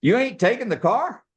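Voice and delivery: imitated salesman, rising to high-pitched disbelief; disbelieving salesman. Salesman hearing the car is refused, incredulous. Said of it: "this salesman's face turned white".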